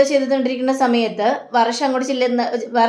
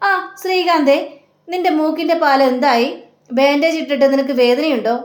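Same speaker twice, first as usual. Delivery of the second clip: innocent mock question; 3 semitones higher than usual. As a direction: pitch it up like an innocent tease. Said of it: "നമ്മുടെ രേവതി ചോദിക്കുക".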